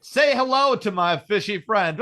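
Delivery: slow, loud mock movie gangster line; a hint of Tony Montana shouting; Scarface quote. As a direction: ham it up like a movie mobster. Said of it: "he gets it right in the face".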